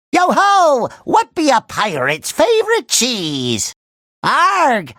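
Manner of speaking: hammed-up pirate riddle voice; cartoon pirate. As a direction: talk like a jolly pirate. Playing a pirate.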